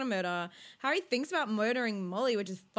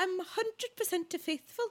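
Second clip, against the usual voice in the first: high-pitched, failed attempt at a Welsh accent; 9 semitones higher than usual. Sitting there trying to copy how she says she's faithful, in an attempted Welsh accent. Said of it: "try to do a Welsh accent".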